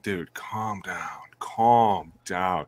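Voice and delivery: slow, whispered calm down; hushed soothing. Retold or imitated. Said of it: "you're kinda like".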